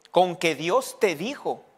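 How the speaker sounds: slow, lightly voiced tempter; diablo tentando a Eva. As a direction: draw out the doubt as the devil. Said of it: "qué fue lo primero que le dijo a Eva". (diablo que siembra dudas lentamente)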